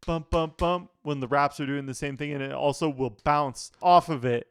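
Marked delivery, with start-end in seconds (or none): 0.1-0.9 spoken drum-beat imitation, evenly punched; imitating beat. Reviewer showing how the track's rhythm goes, imitating the beat. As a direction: say it like thumping drum hits. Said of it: "It's going, like".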